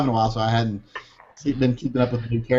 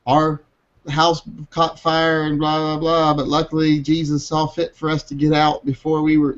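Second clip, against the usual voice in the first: higher, sing-song churchy voice; mocking pious friend; 4 semitones higher than usual. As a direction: parody a pious Facebook post. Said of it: "one of my friends like".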